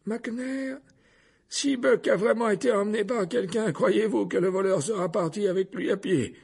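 high, lilting voice, gently mocking; amused. A narrator's reading. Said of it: "d'un ton toujours amusé". (ton amusé, voix haute et chantante)

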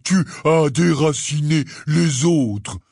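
slow gruff reproach; a hint of a gruff giant scolding; Hagrid scolding. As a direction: tell him off like a child.

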